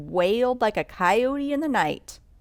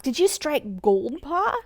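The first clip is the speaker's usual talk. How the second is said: eager; 8 semitones higher than usual. A narrator's reading. Children call out eagerly to Pa.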